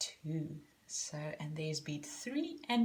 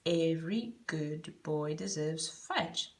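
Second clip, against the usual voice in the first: reciting mnemonic. Shown as a demonstration. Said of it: "my poem".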